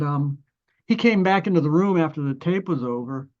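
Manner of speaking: ordinary delivery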